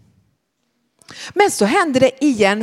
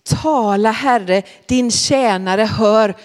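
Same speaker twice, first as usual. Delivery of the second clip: slow, measured quotation; old wording; slower than usual. Shown as a demonstration. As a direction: recite the old translation slowly. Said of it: "Det står det i den gamla översättningen".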